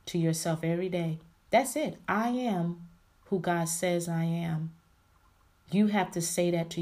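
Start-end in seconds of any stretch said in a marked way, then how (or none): 2.1-4.7 slow, drawn-out "I am" set apart from the rest; emphatic affirmation. Shown as a demonstration. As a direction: stretch "I am", pause, then finish. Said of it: "putting the emphasis".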